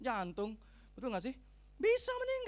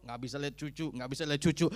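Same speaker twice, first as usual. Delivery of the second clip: lightly acted low lament, louder on the repeat; lamenting old person; 6 semitones lower, 4 dB louder than usual. Preacher imitates a sick elder fretting over grandchildren, lamenting. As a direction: bewail it like a self-pitying elder. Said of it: "Yang tua".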